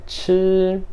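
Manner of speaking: chi high, long and level; first-tone chi. Shown as a demonstration. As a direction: hold chi on one high, steady pitch. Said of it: "Primeiro tom".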